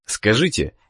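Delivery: normal talking voice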